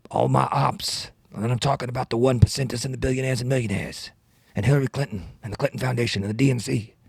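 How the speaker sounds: lightly voiced senator in a loose rap; Bernie Sanders freestyle. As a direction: rap like a politician improvising, slightly lilting. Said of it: "freestyling as Bernie Sanders".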